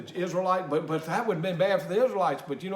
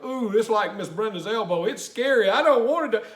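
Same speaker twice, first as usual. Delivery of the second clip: mock scared kid; 2 semitones higher, 4 dB louder than usual. Child imagined facing scary task.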